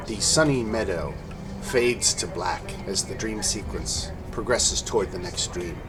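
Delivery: steady storytelling over music; game master narration. A narrator's reading. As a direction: describe the battlefield evenly. DM scene narration.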